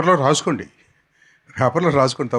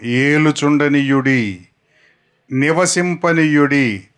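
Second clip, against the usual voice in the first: slow repetition; slower than usual. Shown as a demonstration. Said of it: "ఆ మూడు మాటలే మళ్ళీ చెప్తాను".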